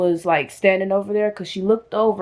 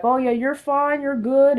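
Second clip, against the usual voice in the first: dismissive doctor; 5 semitones higher than usual. Retold or imitated. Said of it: "he basically was like".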